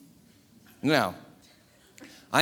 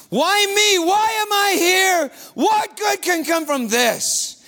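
high anguished scream of despair; 11 semitones higher, 3 dB louder, slower than usual. Acted. Becca screaming alone before the shack. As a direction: cry out to heaven, desperate. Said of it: "and I scream".

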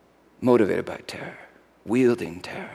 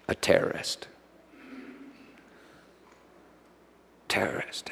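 hushed whisper; 8 semitones lower, 18 dB quieter than usual. Acted. Pilate confessing in hushed dread.

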